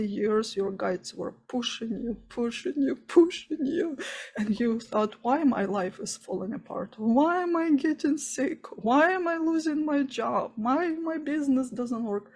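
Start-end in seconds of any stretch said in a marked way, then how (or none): none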